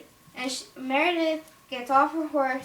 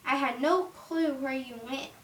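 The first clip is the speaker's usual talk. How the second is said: worried mother; 3 semitones higher than usual. Acted. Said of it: "and she goes".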